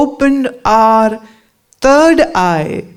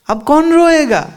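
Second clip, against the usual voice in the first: अब कौन रोएगा said higher, quicker, with a falling end; amused rhetorical question, pitched up; playful punchline; 6 semitones higher, much faster than usual. Shown as a demonstration. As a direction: lift अब कौन रोएगा up high and land रोएगा with a fall. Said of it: "repeated line, second take".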